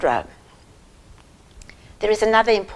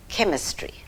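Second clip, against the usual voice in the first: whispered; 6 dB quieter than usual. Acted. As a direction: whisper the word "chemistry." softly after a pause. Dramatic pause before key word.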